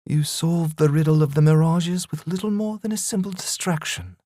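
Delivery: a betrayed demon accepting her end; defeated demon. Acted. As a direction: beaten demon mourning her fate, dying away. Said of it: "a tear formed in her eye".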